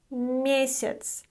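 месяц said slowly, я reduced to и; teacher pronunciation demo; careful Russian word. Shown as a demonstration. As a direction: model месяц clearly for learners. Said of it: "the letter я is pronounced as и here".

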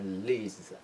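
"لیز" as one syllable opening on clear L; L pulled onto the vowel, making "لیز"; lively initial L in "لیز"; linked L. Shown as a demonstration.

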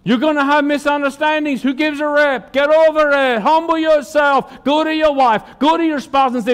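high, insistent exhortation; preacher urging hard. Real, not acted. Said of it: "I raised my voice".

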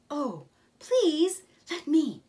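high, loud pleading; eager Mole. Acted. Mole begs Rat to let him pack the basket, high and eager. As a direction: beg to be allowed.

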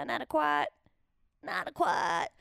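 "inadequate" with its last syllable opened to "kwaht"; accented "inadequate", ending like "squat"; accented pronunciation. Shown as a demonstration. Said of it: "why I do an accent".

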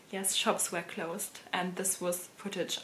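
a quiet, deliberate concession. Shown as a demonstration. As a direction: drop the voice and draw it out, patiently. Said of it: "Shops are closed".

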